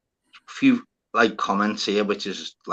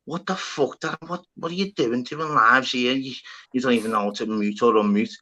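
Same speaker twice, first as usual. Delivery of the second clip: fuming with myself; 4 dB quieter than usual. Retold or imitated. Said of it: "fuming with myself".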